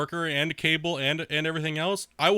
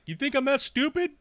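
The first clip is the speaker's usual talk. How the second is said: mock troll; 10 semitones higher than usual. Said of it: "It's like".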